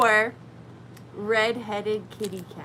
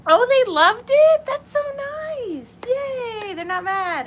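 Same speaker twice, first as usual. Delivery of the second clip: high, squeaky pretend-weepy delight; hammed-up teary squeal of relief; mock tearful joy; 13 semitones higher, 9 dB louder, slower than usual. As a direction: gush like you're about to cry with relief. Mock relief that people aren't mad.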